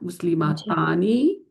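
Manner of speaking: مسلمتانی drawn out very slowly, tani held long; slow demo word. Shown as a demonstration. Teacher building the dual on the board, very slow. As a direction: let مسلمتانی unfold slowly so the ending is heard. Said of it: "دیکھ رہی ہیں آپ؟".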